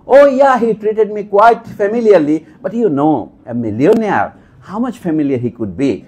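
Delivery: mock effusive, high start, slow; long-winded version. Lecturer showing how a long plain telling would kill the joke, hammed up. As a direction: overexplain the joke grandly. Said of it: "আমি তো বিরাট করে বলতাম".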